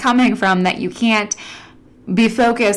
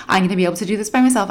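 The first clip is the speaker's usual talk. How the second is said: rushed self-pep; much faster than usual. Retold or imitated. Inner voice, rushed self-assurance.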